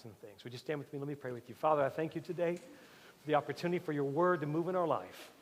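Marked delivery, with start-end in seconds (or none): 1.5-5.3 a touch of preaching lift to the prayer; closing prayer. Acted. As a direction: pray over the congregation.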